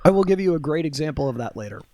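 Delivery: talking around ice cubes; ice in mouth. Real, not acted. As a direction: mouth full of ice, words a bit thick. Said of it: "said that with ice in my mouth".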